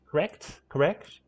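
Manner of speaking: testing "Correct" in a New York accent; questioning retries of "Correct", New York style; attempted New York accent. Shown as a demonstration. Streamer trying every single word, New York accent. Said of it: "trying to get it in a New York accent".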